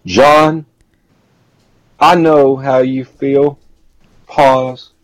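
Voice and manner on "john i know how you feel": mock slow talk with heavy breaks; slow, halting mimicry. Co-host mocks a wrestler's promo delivery, slow and halting. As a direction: mimic a wrestler dragging out each phrase with long pauses. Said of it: "talk slow and take breaths and say".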